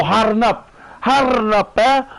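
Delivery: mock tough cousin. Older cousin telling a crying kid to toughen up, mock tough. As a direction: bark it like a hard older cousin. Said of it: "Cousins used to say".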